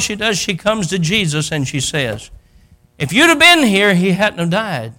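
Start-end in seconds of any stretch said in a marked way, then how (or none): 3.0-4.9 mild acted reproach. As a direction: reproach that starts high, then drops. Martha reproaches Jesus over death.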